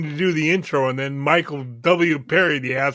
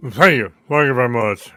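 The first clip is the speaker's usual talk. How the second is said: impression of a famous singer; 6 semitones lower than usual. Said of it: "what's your impression".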